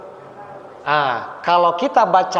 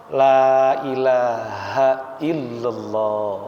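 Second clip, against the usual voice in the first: very slow, lower la ilaha illallah; slow talqin; 5 semitones lower, much slower than usual. Shown as a demonstration. Preacher showing an unhurried talqin, very slow. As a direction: guide the dying gently, word by word.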